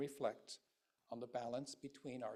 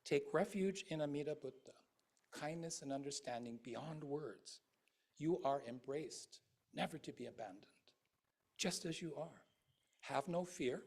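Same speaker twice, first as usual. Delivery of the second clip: gentle Buddha. Acted. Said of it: "the voice of Shakyamuni Buddha saying".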